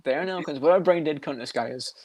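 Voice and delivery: lightly imitated politician's put-down; a hint of a presidential impression; Trump. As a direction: mimic a politician dismissing someone, only lightly put on. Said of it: "I love his Trump when he talks about".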